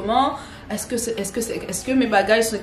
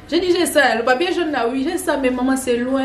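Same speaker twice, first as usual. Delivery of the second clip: higher, louder, hurried answer; flustered reply; 4 semitones higher, 4 dB louder than usual. Retold or imitated. Traveller answering the vaccine check, flustered and higher. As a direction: blurt out the answer in a rush.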